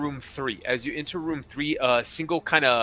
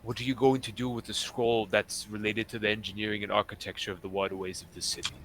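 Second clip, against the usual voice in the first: measured, slightly lowered captain voice; retired pirate captain; 4 semitones lower, 5 dB quieter, faster than usual. Acted. Captain briefing adventurers on a missing scroll, measured character voice. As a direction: confide the job with pauses, sinking at phrase ends.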